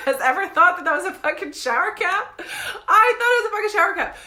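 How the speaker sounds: high, squealed protest through laughter; laughing disbelief. Real, not acted. Storyteller defending her shower cap mistake, laughing. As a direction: defend yourself while cracking up.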